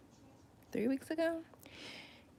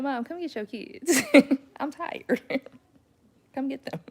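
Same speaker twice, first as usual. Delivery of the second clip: a lightly voiced teenager, higher, whining; mock-whine like a fed-up teen; teen calling mom; 6 semitones higher, 6 dB louder than usual. Teen siblings calling Mom to take the toddlers, mild mock whine.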